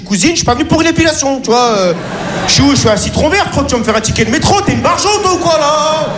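fast, rising, cheeky outrage; protest, half laughing at her; indignant protest. Retold or imitated. Patient protesting the gynaecology chair, fast and indignant. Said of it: "Je dis".

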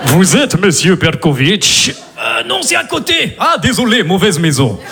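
put-on Russian cop film accent. Russian-accented gangster in a cop film entrance. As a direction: play a Russian mobster bursting in. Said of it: "une entrée genre film de flic russe".

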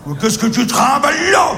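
crie, indigné; cri indigné. Acted. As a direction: une grosse araignée qui gueule. L'araignée interpelle le petit. (l'araignée gueule sur le petit, indignée)

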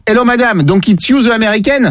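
put-on franglais with a French accent; badly faked English accent; mock franglais. Prankster slips into mock English.

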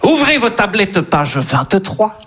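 slow, drawn-out classroom dictation; mock-solemn schoolteacher, stretching the syllables; teacher giving dictation. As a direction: read it out slowly for pupils to write down. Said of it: "vous imaginez les dictées".

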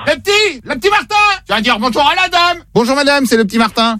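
high, lightly voiced little boy; be the little kid told to say hello.

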